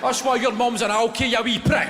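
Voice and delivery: loud, high, spitting abuse; shouted insult. Retold or imitated. Touchline parent roaring insults at a kid, loud and high. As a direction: scream it like a furious parent.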